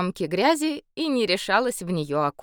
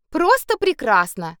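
grumbling sarcasm; 7 semitones higher, 6 dB louder than usual. A narrator's reading. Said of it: "проворчала Саша".

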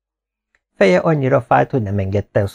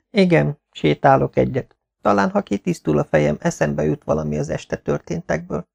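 put-on higher voice, hopeful young wife; a hint of a woman thinking aloud, pitched up; lightly voiced mistress; 6 semitones higher than usual. (enyhén magasabb, reménykedő asszonyhang)

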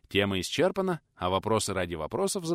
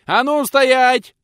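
very high, loud, drawn-out howl; взвыл пенсионер; howling command; 16 dB louder, much slower than usual. Acted. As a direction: roar at them to stop. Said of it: "взвыл пенсионер".

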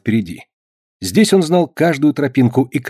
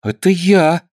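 embarrassed; 6 semitones higher, slower than usual. A narrator's reading. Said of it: "смущённо сказал Бенни".

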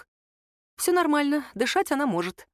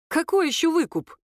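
shocked; 9 semitones higher than usual. A narrator's reading. Nika shocked by ransom.

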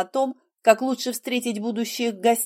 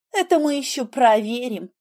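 snorting; 3 semitones higher than usual. Acted. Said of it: "фыркнула я".

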